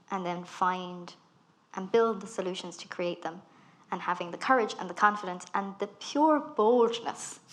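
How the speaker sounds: usual speaking voice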